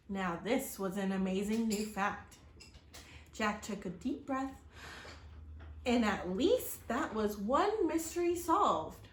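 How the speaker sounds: steady, expressive read-aloud storytelling; story narration. A narrator's reading. Reading a storybook aloud to children, expressive narration. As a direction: tell the chapter to young listeners.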